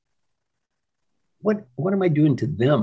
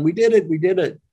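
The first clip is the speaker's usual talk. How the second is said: excited cheer; 4 semitones higher, 3 dB louder than usual. Retold or imitated. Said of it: "he's jumping up and down".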